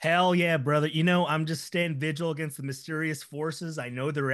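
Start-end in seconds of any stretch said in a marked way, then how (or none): 0.0-0.9 loud bro whoop; hammed-up enthusiasm. Player greeting the host in character, loud hype. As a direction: belt it like a hyped-up buddy.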